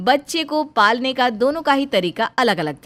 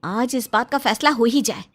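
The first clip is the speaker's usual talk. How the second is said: lightly voiced young wife, higher and anxious; worried young bahu; 4 semitones higher, 5 dB louder than usual. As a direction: plead gently with your mother-in-law. Bahu confronts. (हल्की ऊँची आवाज़ में परेशान बहू)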